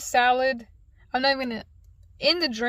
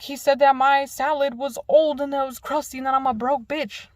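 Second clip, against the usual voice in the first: louder, heated mock complaint; retold outburst with a raised voice; indignant retort; 2 semitones higher, 5 dB louder than usual. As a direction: act out an aggrieved comeback to the teacher. Acted quarrel with the teacher.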